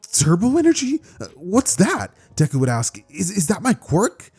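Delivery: high, puzzled questions; confused. Acted. Boy puzzling over turbo energy, high and confused. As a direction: sound lost and curious.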